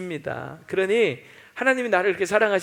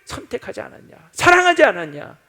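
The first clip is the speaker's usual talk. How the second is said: much higher, loud challenge; God's rebuke; 11 semitones higher, 9 dB louder than usual. Retold or imitated. God answering Israel, high and loud. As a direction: proclaim God's choice forcefully. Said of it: "이스라엘 백성들이".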